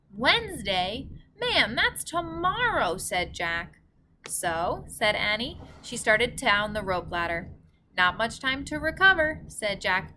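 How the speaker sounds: gentle storybook read-aloud; story narration. A narrator's reading. Reader narrating a story to boys and girls, gentle read-aloud. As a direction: tell it like a bedtime story for kids.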